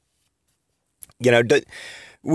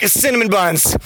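higher-pitched climactic yelp; mock yell; 7 semitones higher than usual. Barry climaxing with Iris, mock yell. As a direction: blurt it out high, without much volume. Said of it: "Barry Allen yells cinnamon buns".

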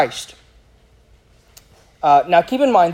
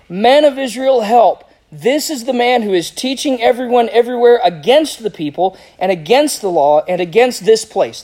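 raised, emphatic cry for help; 5 semitones higher, 3 dB louder than usual. Acted. Preacher reading out the mob's accusation against Paul, crying out. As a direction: call out an accusation to the crowd. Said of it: "crying out".

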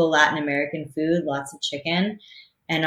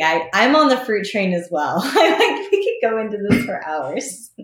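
talking through real laughter, pitch jumping high; laughing; 6 semitones higher, 4 dB louder than usual. Real, not acted. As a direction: laugh your way through the words. Laughs while she talks.

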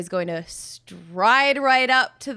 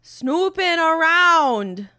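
smug bluff; 4 semitones higher, much slower than usual. Acted. Character repeats bluff to guard.

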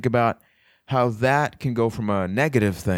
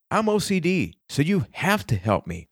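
mock whining plea, starting high; mock your own excuse, pitch jumping up then dropping; self-mocking; 6 semitones higher than usual. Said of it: "you could tell I was mocking myself".

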